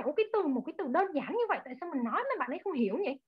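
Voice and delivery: puzzled inner thought. Retold or imitated. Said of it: "Thanh Mai nghĩ rằng".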